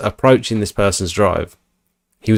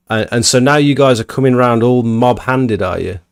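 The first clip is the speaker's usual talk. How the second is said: mock posh guy; 2 semitones higher than usual. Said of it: "He's a, like, a posh guy".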